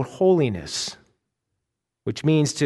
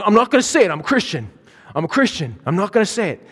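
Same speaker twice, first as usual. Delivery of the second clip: angry muttered refusal; 5 semitones higher, faster than usual. Retold or imitated. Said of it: "He's sitting there angry".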